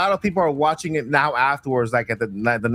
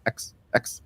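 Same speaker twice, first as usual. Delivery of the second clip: whispered teasing; 4 semitones lower, 7 dB quieter than usual. Acted.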